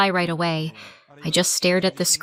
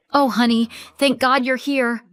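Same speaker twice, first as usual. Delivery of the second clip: higher, honeyed and relieved; syrupy fake sweetness; 5 semitones higher than usual. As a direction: sell the sweet reunion. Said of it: "That syrupy, affectionate mask".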